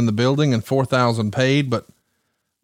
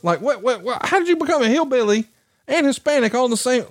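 laughing disbelief; 10 semitones higher than usual. Real, not acted. Laughing disbelief at friend's dialects.

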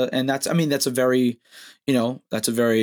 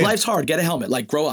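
high, pushy tough-guy dad; 5 semitones higher than usual. Retold or imitated. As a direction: bark it like a drill coach. Voicing tough old-school dad.

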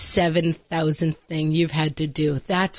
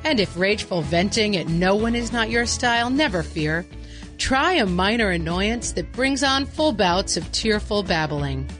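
commercial announcer; 3 semitones higher than usual. Acted. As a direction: sell it like a TV spot. Parody ad announcer.

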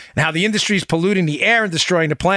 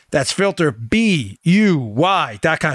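cheerleader; much slower than usual. Acted. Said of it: "Sound like a cheerleader".

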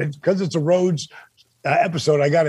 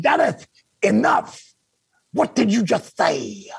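higher, slow imitation of Dusty cutting him off; slow and sharp, stopping him mid-sentence; Dusty's voice; 4 semitones higher than usual. Dusty on the phone stopping Dennis mid-sentence, higher and slow. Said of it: "those sons of Betty went".

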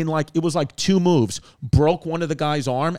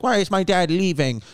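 lightly voiced little kid, pitched up; a higher, puzzled kid's question; child's plaintive question; 5 semitones higher than usual. Kid asking mom why dad is leaving, lightly voiced child.

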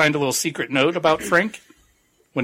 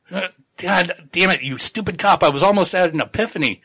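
higher-pitched, mildly exasperated outburst; mock pissed off; 5 semitones higher than usual. Tagomi to the cop who broke his epiphany, mock pissed off. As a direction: play-act being annoyed at an interruption. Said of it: "he gets pissed off about that".

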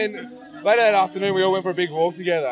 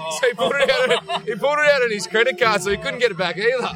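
higher, louder, through laughter; laughing while talking; 6 semitones higher, 4 dB louder than usual. Real, not acted. Telling mates about the guy's credit card payment, laughing. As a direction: tell it through a rising laugh.

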